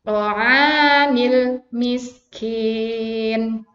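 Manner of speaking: very slow drawn-out "To'anil miskin"; slow recitation. Shown as a demonstration. Teacher models the verse very slowly. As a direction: stretch it out. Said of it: "Ini matobi diayunkan".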